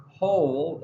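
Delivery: whole said slowly, no w sound; pronounced whole. Shown as a demonstration. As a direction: say whole as hole. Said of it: "it obviously sounds like whole".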